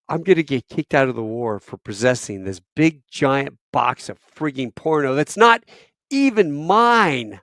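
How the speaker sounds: climbing, incredulous protest; panicked inner rant. Retold or imitated. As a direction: work yourself into exasperated disbelief. Acting out his panicked inner thoughts.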